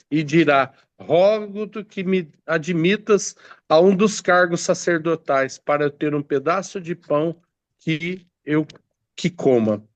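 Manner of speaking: measured Bible reading aloud; scripture reading. Acted. Preacher reads prophecy to the congregation, solemn scripture reading. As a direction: read the verse out to the congregation.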